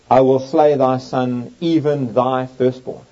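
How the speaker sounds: slow, grave, firstborn stressed; solemn stress on firstborn; emphasis on firstborn. Shown as a demonstration. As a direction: lean on firstborn, slowing down. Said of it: "Notice the emphasis on the firstborn".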